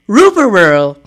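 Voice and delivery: slow dog-like R-speech; Scooby voice. Acted. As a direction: say it the way Scooby mangles words. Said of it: "I'm doing different voices for different people".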